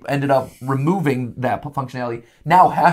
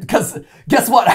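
raised, higher call-out to viewers; 5 semitones higher than usual. Real, not acted. Host calling out to copycat developers, raised higher voice. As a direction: shout the challenge, laughing.

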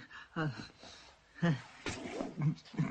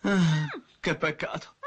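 wailing regret; 3 dB louder, slower than usual. Acted. Thief has to leave the loot.

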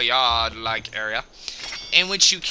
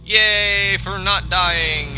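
slow cheer; 5 semitones higher, 4 dB louder, much slower than usual. Real, not acted. Celebrating survival.

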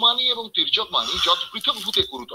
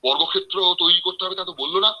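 mildly voiced puzzled objector; sceptical objection. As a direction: push back like a doubting listener. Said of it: "আপনি ভুরু কুচকোতেই পারেন". (সামান্য সন্দেহভরা আপত্তির সুরে)

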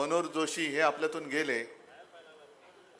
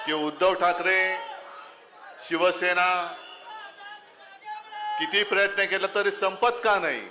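fiery address to the crowd; rally speech. Real, not acted. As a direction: speak out to a packed rally.

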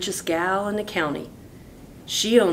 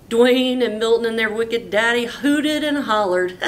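laughing narration; 5 semitones higher, 5 dB louder than usual. A narrator's reading.

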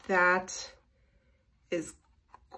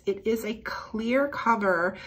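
usual speaking voice

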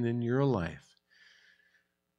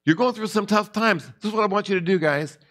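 voicing James; 6 semitones higher than usual. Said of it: "And he's saying to them".

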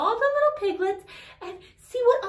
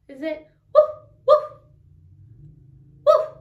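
mock dog woof; 5 semitones higher, 6 dB louder than usual. Shown as a demonstration. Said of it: "How about".

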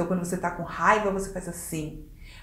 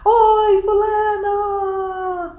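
very high, loud, long-drawn cheerful greeting; exaggeratedly happy phone hello, stretched out; bem alegre; 11 semitones higher, 7 dB louder, much slower than usual. Shown as a demonstration. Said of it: "atender bem alegre". (atendendo o telefone com alegria exagerada)

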